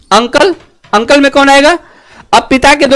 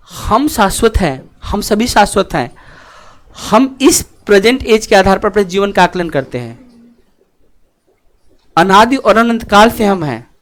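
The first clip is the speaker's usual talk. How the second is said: lower, measured philosophical delivery; solemn pronouncement; 4 semitones lower, 3 dB quieter than usual. Real, not acted. Teacher telling students we are eternal, quietly solemn. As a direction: state it as a timeless truth, unhurried.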